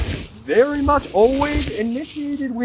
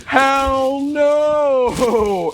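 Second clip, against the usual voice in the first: indignant refusal; 4 semitones higher than usual. Retold or imitated. Boyfriend refusing to buy the beer, indignant. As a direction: shout it in mock outrage.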